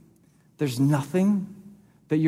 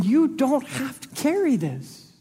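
gentle voice of God; 8 semitones higher than usual. Acted. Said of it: "It's God going".

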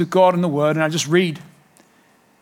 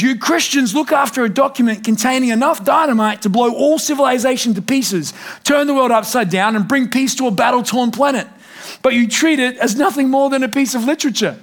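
higher, quoting Gandhi with urgency; raised quoting voice; 5 semitones higher than usual. Retold or imitated. Pastor quotes Gandhi to the church, raised and urgent. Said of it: "he said it like this".

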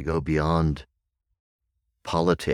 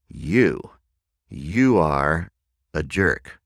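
lightly acted adult accusation, usual pitch; grown-up; 4 dB louder, much slower than usual. Someone insults you in grown-up context, lightly acted accusation. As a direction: say it deliberately, pausing between the words. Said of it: "a grown-up context".

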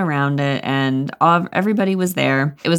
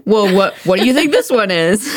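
Obama impression; 4 semitones higher, 4 dB louder than usual. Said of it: "if I was like".

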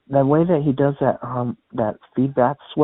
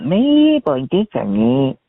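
munchkin voice; slower than usual. Retold or imitated. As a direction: jump way up into a tiny munchkin squeak. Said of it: "that little munchkin voice".

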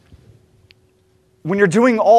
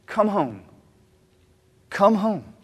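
pleading; 2 semitones higher, slower than usual. A narrator's reading. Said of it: "He pleads with him".

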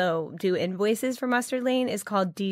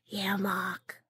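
Long Island Australian; 5 dB quieter than usual. Retold or imitated. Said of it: "a Long Island and Australian combined".

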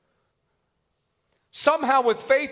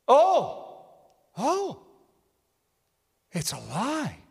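hushed low cry of discernment; quoted prophet, fading low; much slower than usual. Retold or imitated. Preacher replaying the tape, hushed awe. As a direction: breathe the words as a revelation. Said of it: "There he goes".

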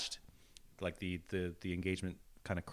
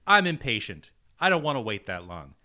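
loud, high hammed-up rant; mock angry rant; 7 semitones higher, 8 dB louder than usual. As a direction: rant the plug like a tyrant. Mock angry Patreon plug.

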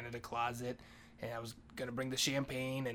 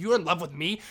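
loud, higher disbelieving question; astonished question; 4 semitones higher, 9 dB louder than usual. Retold or imitated. Maria reacting to his love confession, astonished and loud. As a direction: throw it back loudly in disbelief.

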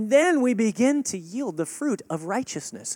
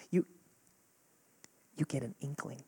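very soft and low, like a faint inner prompting; hushed whisper; 5 semitones lower, 12 dB quieter than usual. Shown as a demonstration. Preacher showing a quiet inner prompting, hushed. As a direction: barely voice it, dropping low. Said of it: "There's a whisper".

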